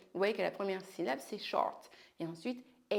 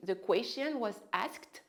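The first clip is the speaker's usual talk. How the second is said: slow model phrase; slower than usual. Shown as a demonstration. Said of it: "La question a été posée".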